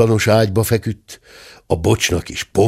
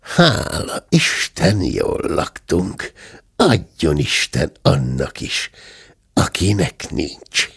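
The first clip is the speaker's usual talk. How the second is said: slow, satisfied murmur; well-fed and unhurried; contented murmur; 3 semitones lower, slower than usual. Acted. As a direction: say a slow, contented after-dinner grace. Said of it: "A bátya elégedetten morogta".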